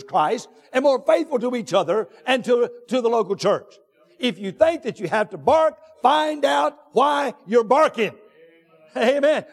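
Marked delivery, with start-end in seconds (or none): 6.0-8.1 drawn-out, raised charge; slow preaching shout. Real, not acted. Preacher challenging the congregation, slow raised exhortation. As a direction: lean on every word, pushing it out slowly.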